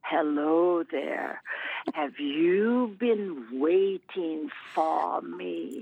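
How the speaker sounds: imitating a spooky radio lady, slow and low. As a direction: stretch each word out like a ghostly radio voice. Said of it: "I heard this spooky lady say".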